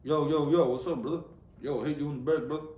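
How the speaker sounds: casual greeting in an imitated Black American accent; imitation Black American accent; mock Black American accent. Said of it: "people still do the black accent".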